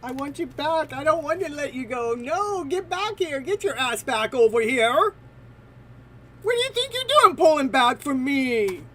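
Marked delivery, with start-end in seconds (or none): 2.1-8.8 mock demand. Voicing TM demanding viewer back.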